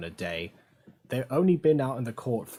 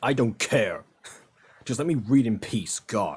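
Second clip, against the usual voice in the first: put-on annoyed teen voice, louder; 4 dB louder than usual. Voicing what Zane is thinking about the apology: imitating Zane, annoyed. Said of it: "Zane's like".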